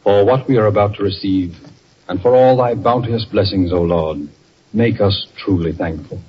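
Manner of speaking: saying grace. Acted. Father says grace at table.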